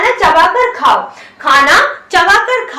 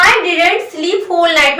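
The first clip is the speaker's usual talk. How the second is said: very slow, deliberate English model; slow teaching read; slow demo; much slower than usual. Shown as a demonstration. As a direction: stretch every word so students copy it. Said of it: "मैंने बोला".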